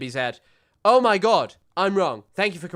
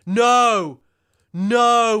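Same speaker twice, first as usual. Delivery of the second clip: dismayed cry; 4 semitones higher, 8 dB louder than usual. Real, not acted. Tweet deleted, streamer cries out.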